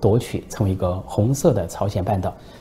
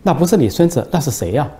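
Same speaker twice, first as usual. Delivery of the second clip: jumps higher on the first phrase, then settles; surprised; 5 semitones higher than usual. Acted. Reporter thrown by the old man's answer, surprised. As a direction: caught off guard, asking again. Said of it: "记者也诧异了".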